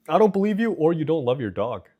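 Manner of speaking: high, loud insistence; loud, high-pitched challenge to the listeners; emphatic disbelief. Real, not acted. Repeats it, challenging the voters.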